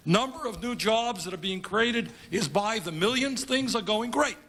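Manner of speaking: wry, sarcastic cheer; mock good news. Politician mocking rosy TV economic reports to supporters, sarcastic. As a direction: relay the rosy report with heavy irony.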